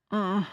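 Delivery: short annoyed grunt; effort grunt. Real, not acted. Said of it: "I'm not grunting at you".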